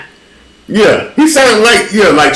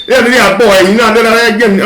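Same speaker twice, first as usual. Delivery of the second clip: imitating bad Jamaican accent; 9 semitones higher than usual. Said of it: "I'm like".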